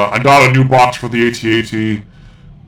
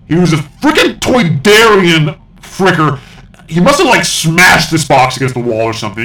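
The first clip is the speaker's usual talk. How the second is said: exasperated rant; 4 semitones higher than usual. Acted. Ranting about the crushed box.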